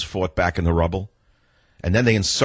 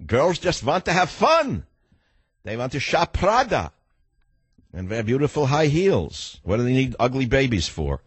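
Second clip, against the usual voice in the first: mock girly voice; 4 semitones higher than usual. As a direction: play a carefree girl. Mocking girls who want fun.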